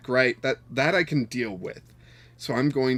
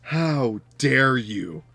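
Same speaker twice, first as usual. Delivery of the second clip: slow, drawn-out mock indignation; mock outrage; 4 dB louder, much slower than usual. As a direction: act scandalised at the opponent. Mock outrage at opponent's play.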